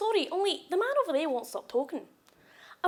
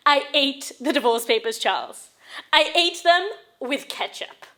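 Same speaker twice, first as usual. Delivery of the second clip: loud, emphatic defiance; defiant confession; 5 dB louder than usual. Acted. Wife confessing to Charles, loud defiant announcement. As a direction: declare it proudly and forcefully.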